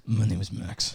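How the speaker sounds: imitating a wounded man, low and soft; barely audible mumble. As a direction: mumble it weakly, as if shot. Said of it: "barely made a sound".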